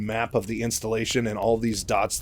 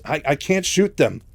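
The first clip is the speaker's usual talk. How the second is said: higher, flustered stammer on the first word; imitated stammer, pitched up; 5 semitones higher, 4 dB louder than usual. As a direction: act out a stammered confession. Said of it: "he's stammering a bunch".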